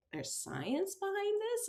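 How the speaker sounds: high, slow, astonished question; as if hearing it for the first time; amazed disbelief. Retold or imitated. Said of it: "And I'm like".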